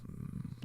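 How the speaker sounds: very faint, closed-mouth "mm"; imitated stifled "mm". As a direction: imitate a barely audible hum of someone holding back. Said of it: "like that afterwards".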